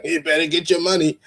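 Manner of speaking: laughing while repeating the advice. Real, not acted. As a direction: chuckle through the words.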